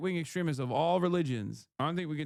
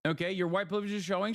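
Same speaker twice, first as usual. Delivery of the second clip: mock chatter voice; 4 semitones higher, much faster than usual. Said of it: "mocking a chatter".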